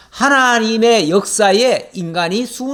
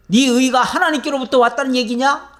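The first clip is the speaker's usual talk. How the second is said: higher, pointed challenging question; challenging rebuke; 6 semitones higher than usual. Acted. Elihu challenging Job about his righteousness, a pointed rebuke. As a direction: throw the question back at him as a rebuke. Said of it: "라고 지금 따지는 거예요".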